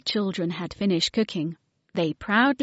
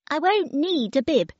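put-on high, cheeky little-girl voice; baby voice; 8 semitones higher than usual. Baby tells the children she needs no bib, high and cheeky. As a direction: play a bossy toddler talking. Baby's voice in the story.

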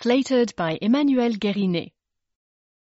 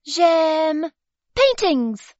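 put-on much higher tiny baby voice; a tiny prim baby speaking up; baby refusing the bib, squeaky and prim; Baby's voice; 7 semitones higher, 7 dB louder, much slower than usual. A narrator's reading. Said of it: "she said".

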